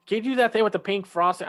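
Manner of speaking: high, quick mock pleading; excited silly request. Pirate son asking Sheeta for a treat, excited. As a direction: rattle off an eager request in a high voice. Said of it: "all of their ridiculous requests".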